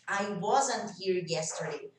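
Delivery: slow "wasn't here", T swallowed before "here"; silent T in "wasn't". Shown as a demonstration. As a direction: glide from "wasn't" into "here" without releasing T. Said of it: "o T vai sumir o som". ("wasn't" com o T sumindo)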